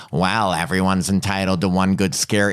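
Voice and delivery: low, mildly creepy sheriff voice; pervy adult. Retold or imitated. Imitating the sheriff's line to a girl, pervy adult. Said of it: "like, pervy adult".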